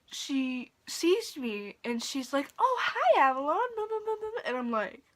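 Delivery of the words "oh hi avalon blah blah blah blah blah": very high, loud gushing mock greeting; sugary mocking falsetto trailing into blah-blah; fake nice. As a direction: imitate a two-faced boss squealing hello. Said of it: "she's just acting all fucking nice".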